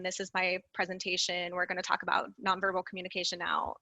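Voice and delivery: flat, even monotone read; monotone demo. Shown as a demonstration. Presenter demonstrating a boring monotone delivery. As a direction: drone it out with no lift. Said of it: "a monotone".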